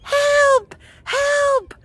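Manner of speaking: put-on very high, thin child's call; little kid's voice. Distant kid answering her in the woods, little kid's voice. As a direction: mimic a small kid calling out. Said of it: "I hear a little kid's voice going".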